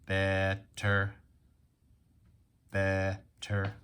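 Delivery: "Better" in two level, separated beats; robot syllables. Shown as a demonstration. Teacher tapping out "Better" for pupils, robot-like. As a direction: break "Better" after the first syllable, monotone. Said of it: "We can tap and talk like a robot".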